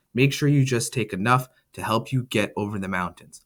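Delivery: father sends his family away with firm directions; firm father's orders. Acted. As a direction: give the family their orders calmly and firmly. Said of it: "my father firmly directed us".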